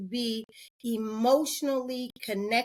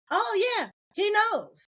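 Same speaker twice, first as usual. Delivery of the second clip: much higher, airy mother voice; mock breezy mother; 10 semitones higher than usual. Mother brushing off her daughter, high and breezy. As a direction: toss it off lightly as the mother.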